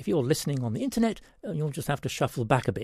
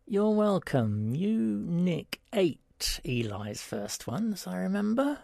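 pointed reply; 5 semitones higher, slower than usual. A narrator's reading. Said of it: "Pete replied somewhat pointedly".

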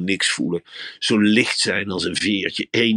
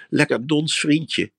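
high, slow cooing; cooing to a bunny; 5 semitones higher, slower than usual. Acted. Talking to a rabbit. (hoog en langzaam koerend tegen een konijntje)

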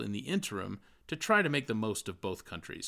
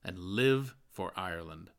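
earnest exhortation. Acted. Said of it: "His advice to every Irishman was".

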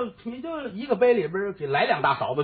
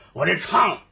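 usual speaking voice

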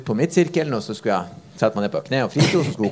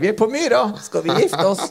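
imitating a proposing ex-husband, pitched up; teasing impersonation of the man at Aspmyra; mock proposal; 8 semitones higher than usual. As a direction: ham up a stadium proposal. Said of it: "Og liksom, to dager etter".

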